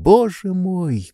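a high, pained exclamation, not truly shouted; near cry. A narrator's reading. Stolz, shocked by the child, half-cries out in pain. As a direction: cry out as from sudden pain, held back. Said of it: "почти закричал он".

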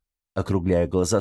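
ordinary delivery

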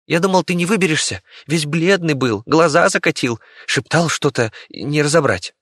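rat. Acted. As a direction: chatter worriedly to a friend. Rat tells what happened.

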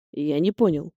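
low, quiet words in her ear; whisper. A narrator's reading. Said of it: "прошептал на ухо Нариман".

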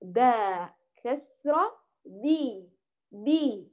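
slow باء كسرة بي, no breath or sound leaking; spelled-out letter sound. Shown as a demonstration. Teacher spells the baa for pupils, slow and voiced. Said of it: "لا الصوت يجري ولا النفس يجري".

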